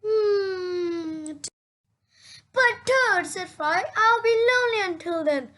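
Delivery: high, fast fake crying complaint; whiny crying voice. Frog whines to sleepy Toad about being lonely, fake crying. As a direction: whimper it like a lonely friend.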